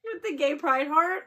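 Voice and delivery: high squeal breaking into a shout; freaking out. Real, not acted. Vlogger unwrapping fan gifts, squealing excited shout. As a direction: lose it with delight. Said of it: "This is me freaking out".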